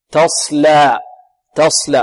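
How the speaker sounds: "تصلى" with a dark s and light "laa"; heavy sad followed by a clear, open "laa"; thin lam. Shown as a demonstration. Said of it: "واللام مرققة".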